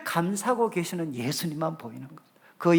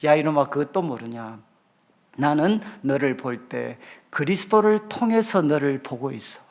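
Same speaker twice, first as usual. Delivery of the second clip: a lightly voiced God chiding a child; God's fond rebuke; 6 semitones lower than usual. Preacher voicing God correcting him, mild lower teasing scold. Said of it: "그때 저한테 뭐라고 교훈을 주셨느냐".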